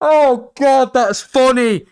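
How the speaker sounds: high, loud, laughed-out voice; real helpless laughter. Real, not acted. Streamer tickled by their own joke, helpless with laughter. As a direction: gasp it out after a big laughing fit. Recovering from long laughing fit.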